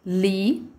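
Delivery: "Libélula" split as li, bé, lu, la; syllable by syllable. Shown as a demonstration. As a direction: say "Libélula" in four separate syllables with pauses. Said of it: "vamos tentar identificar".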